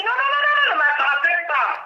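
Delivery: high, urgent mock protest; imitating a woman fighting off people grabbing her; protesting cry. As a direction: push the people away with your voice. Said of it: "tu as dit".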